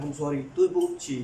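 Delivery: I'm sorry, तुई पूछी said slowly, word by word; slow careful demo. Shown as a demonstration. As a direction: spell it out slowly for beginners. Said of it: "ये इसकी translation". (धीरे धीरे, साफ़ बोलना)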